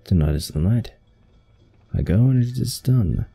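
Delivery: put-on lightly done British accent, drifting toward Australian. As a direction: read the villain's plotting in a mild British accent. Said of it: "just default to British".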